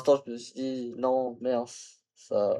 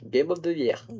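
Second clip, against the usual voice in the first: English accent; 2 semitones higher, slower than usual. Shown as a demonstration. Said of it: "avec un super accent anglais".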